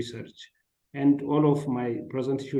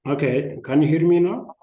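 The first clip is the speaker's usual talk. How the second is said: loud and high, pushing the voice; shouting on bad phone line; 4 semitones higher, 7 dB louder than usual. Real, not acted. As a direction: speak up so they hear you. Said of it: "Can you, can you increase your volume".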